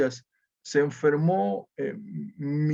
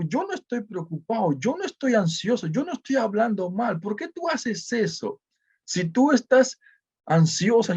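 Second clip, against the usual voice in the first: angry retort; 5 semitones higher than usual. Retold or imitated. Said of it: "yo ya estaba muy enojado".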